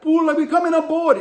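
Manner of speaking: high, loud mock yell; imitated pirate yell. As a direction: holler up at the ship like a boarding pirate. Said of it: "he's yelling at him".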